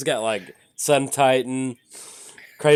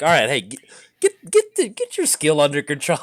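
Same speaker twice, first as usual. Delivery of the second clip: self-scolding pep talk; 3 semitones higher than usual. Retold or imitated. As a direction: snap yourself back into focus. Scolding himself mid-game.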